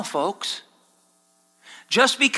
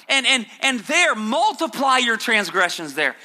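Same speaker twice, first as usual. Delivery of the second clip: sarcastic mock encouragement; 4 semitones higher than usual. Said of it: "he's being sarcastic here".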